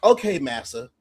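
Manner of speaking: high, hammed-up obedient apology; mock submission. Pretending to yield to the coach, mock-submissive. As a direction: give in with exaggerated meekness.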